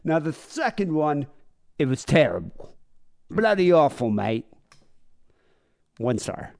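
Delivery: reviewer voice, lightly done; mock product review. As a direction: read it like a deadpan online product review. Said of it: "like an Amazon review".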